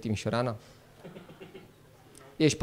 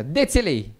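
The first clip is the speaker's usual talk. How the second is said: mock Chinese accent. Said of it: "M-am dus la o doamnă".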